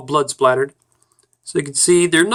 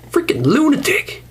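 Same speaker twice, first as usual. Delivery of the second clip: high whispered jab; much higher whispered aside; whispered insult; 11 semitones higher than usual. Acted. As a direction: hiss it under the breath.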